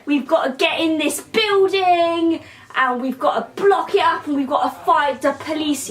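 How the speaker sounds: mock rallying speech, pitched a little up; rally the crowd as a spoof revolutionary; lightly hammed-up call to arms; posh rebels. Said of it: "All these posh people say".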